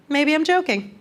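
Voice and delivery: high cheeky niece voice; cheeky little girl. Retold or imitated. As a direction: kid shrugging it off. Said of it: "she goes".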